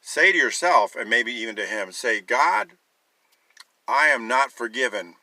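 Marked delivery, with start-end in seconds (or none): 2.2-5.1 raised voice, crying out to God; prayed aloud. Shown as a demonstration. Preacher voicing a prayer aloud, firm and raised. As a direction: say it out loud to God. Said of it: "Say that".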